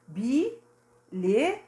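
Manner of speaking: Bilhete drawn out slowly with a rising end. Shown as a demonstration. Teacher sounding out the word for pupils, drawn out. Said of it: "B com I".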